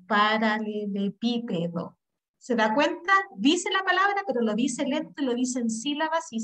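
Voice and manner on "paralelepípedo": "paralelepípedo" drawn out slowly in separate syllables. Shown as a demonstration. Teacher showing how to manage a hard word, "paralelepípedo" slow and syllabified. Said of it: "lo digo en sílabas y lento".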